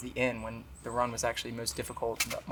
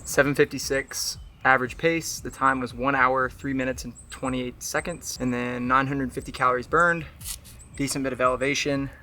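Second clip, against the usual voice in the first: out of breath; 6 dB louder than usual. Real, not acted.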